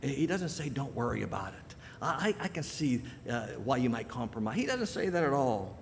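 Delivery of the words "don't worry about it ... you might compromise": a touch softer, gently soothing; hushed, mock-sympathetic reassurance; mock soft and tender. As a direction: coax them gently, like you'd let it slide. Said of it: "speak to them softly and tenderly".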